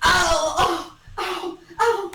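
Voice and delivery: small high-pitched yelps; mock pained ows. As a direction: act out little bumps on landing. Acts out landing in pain.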